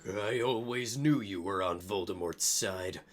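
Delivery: low, accusing voice; Sirius accusing. Acted. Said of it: "Sirius said to Snape".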